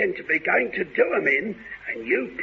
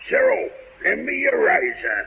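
menacing shout. Acted. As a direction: shout it like a villain. Villain threatens captive boys.

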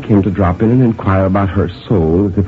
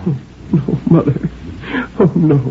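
higher, lightly voiced daughter; anxious daughter; 7 semitones higher than usual. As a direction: gently protest to your mother in a higher voice. Daughter answers her sick mother.

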